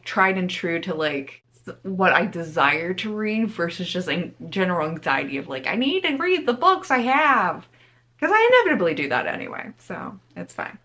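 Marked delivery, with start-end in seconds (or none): 5.7-10.8 mock anxious voice. Mocking her own book anxiety.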